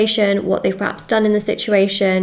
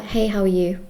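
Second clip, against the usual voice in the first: robot voice; 3 dB quieter than usual. Retold or imitated. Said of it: "they'll talk like a robot".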